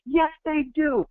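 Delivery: very high, slow, ringing yell; megaphone shout. Acted. Yelling for the viewer through a megaphone, full shout. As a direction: blast it out like a megaphone. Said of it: "I'm your megaphone going".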